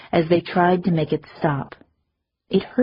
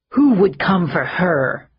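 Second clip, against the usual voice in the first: a mild snarl, slightly louder; 4 dB louder than usual. Acted. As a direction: challenge the crowd with a growl. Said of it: "he snarled".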